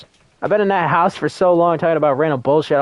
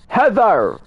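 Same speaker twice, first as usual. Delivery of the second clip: calling out. Real, not acted. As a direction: call out to the ghost. Calling out to ghost in game.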